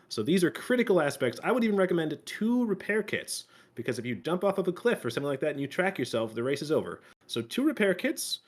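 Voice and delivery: upbeat YouTube host intro, brisk; announcer voice. Pretend. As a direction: hype it up like a video host. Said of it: "I'll even get on the announcer voice".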